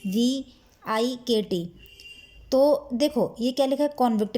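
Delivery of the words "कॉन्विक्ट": "कॉन्विक्ट" with a full, rounded "कॉन"; wrong pronunciation. Shown as a demonstration. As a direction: open o vowel in the first syllable of "कॉन्विक्ट". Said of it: "जो कि गलत है".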